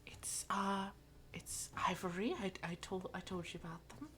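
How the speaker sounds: hushed, halting, near-whisper; soft, hesitant, stumbling aside; quiet explanation. Acted. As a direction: murmur it softly to a small child. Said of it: "Mira just says quietly to her".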